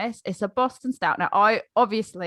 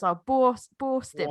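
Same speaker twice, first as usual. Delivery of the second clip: mock British-style Boston; 2 semitones higher, slower than usual. Shown as a demonstration. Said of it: "I think over here everyone goes".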